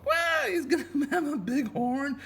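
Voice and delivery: high, laughing wow. Real, not acted. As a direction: laugh through it. Laughing at drawing.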